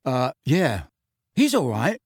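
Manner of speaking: put-on grudging, awkward boy's reply; gruff. A narrator's reading. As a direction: brush it off gruffly. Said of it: "said Ron gruffly".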